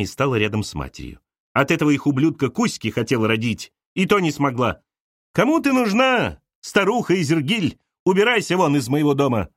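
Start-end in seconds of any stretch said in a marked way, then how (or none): 1.5-9.5 Galya jeering, high on «Кому ты нужна»; a jealous wife driving out a rival; spiteful insult. Acted. Galya throws Arina out. (Галя злобно выгоняет)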